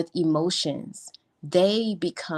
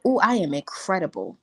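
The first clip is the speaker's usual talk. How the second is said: ooh incredible. Shown as a demonstration. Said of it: "Can we get".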